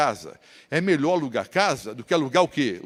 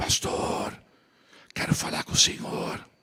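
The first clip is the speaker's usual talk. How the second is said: raspy, hoarse, very breathy half-whisper. A pastor retelling how the last man to leave addressed him: imitating a hoarse voice. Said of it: "com a voz disfônica".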